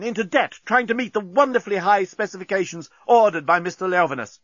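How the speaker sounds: high, impassioned declamation; ringing defiant speech. A narrator's reading. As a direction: proclaim your grievance to the enemy fleet. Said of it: "his voice rang round".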